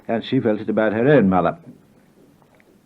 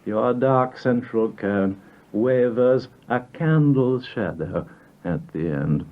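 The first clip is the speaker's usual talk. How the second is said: poem recitation; slower than usual. Acted. Poet reading his poem Legal Fiction to listeners, incantatory recitation. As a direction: intone each line, letting it fall away at the end.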